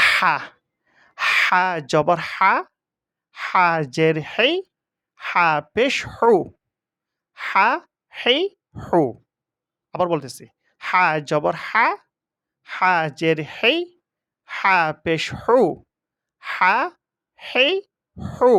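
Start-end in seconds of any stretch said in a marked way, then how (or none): 0.1-9.0 "হা", "হেই", "হু" with a long, pressed h; teacher drawing out a constricted "হা", "হেই", "হু"; squeezed "হা". Shown as a demonstration. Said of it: "হার উচ্চারণটা কিন্তু সিবে বলতে হবে". 10.8-18.5 slow "হা", "হেই", "হু" with the h pressed out; careful demonstration of constricted "হা", "হেই", "হু"; squeezed "হা". Shown as a demonstration. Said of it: "এইভাবে উচ্চারণ করতে হবে".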